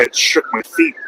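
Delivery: squeaks up high on feet; real delighted high rise; amazed. Real, not acted. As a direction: marvel at the rumble, rising. Excited about a passing car.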